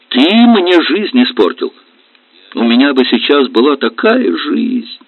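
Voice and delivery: on the edge of tears; wife blaming husband for her ruined life; tearful reproach. Acted. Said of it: "Она заплакала".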